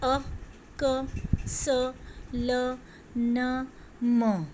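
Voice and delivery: teacher voicing each letter sound; sound demonstration. Shown as a demonstration. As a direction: say अ, क, स, ल, न, म one at a time, clearly. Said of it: "अपने गले से या मुंह से ये आवाज़ें निकालिए".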